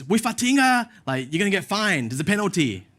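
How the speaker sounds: high, loud mock telling-off; imitated scolding. Stranger warning a man feeding pigeons, imitated high scolding. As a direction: scold like a stranger threatening a penalty.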